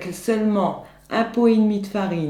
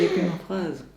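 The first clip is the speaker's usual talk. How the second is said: laughing. Real, not acted. Giggling, forgot the line.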